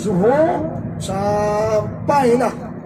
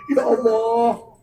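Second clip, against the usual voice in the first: higher, pleading voice of a repentant pilgrim; a mock weeping prayer, pitched up; imitating a tearful prayer; 4 semitones higher than usual. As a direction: plead with God as if near tears. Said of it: "kita akan menangis".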